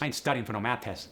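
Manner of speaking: quick AAVE, "math" with a T; AAVE sentence. Shown as a demonstration. Teacher demoing AAVE sentence. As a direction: rattle it off AAVE style. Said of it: "The voiceless T H can also go to a T".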